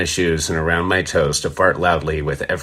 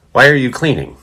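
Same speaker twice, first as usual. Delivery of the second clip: mocking shout; 8 semitones higher, 6 dB louder than usual. Drunk regular heckles the bartender.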